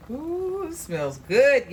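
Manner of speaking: high squealed ooh, then loud and slow; thrilled by the smell of the pan; delighted ooh. Real, not acted. Cook smelling the sauce to viewers, delighted and high. Tasting aroma while stirring.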